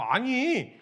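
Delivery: put-on young David can't hide his agitation; worked-up protest. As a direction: argue with disbelieving passion. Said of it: "흥분을 감추질 못하고".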